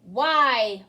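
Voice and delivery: a huge roar. A narrator's reading. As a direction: roar the question. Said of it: "roared the magician".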